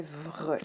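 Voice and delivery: "vre" drawn out as vvr-e; isolated syllable. Shown as a demonstration. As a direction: sound out "vre" as one blended syllable. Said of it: "la deuxième syllabe est".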